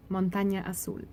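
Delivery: Montaña Azul said with Spanish vowels and rolled sounds; Spanish accent. Shown as a demonstration. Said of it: "Just to get my Spanish accent in there".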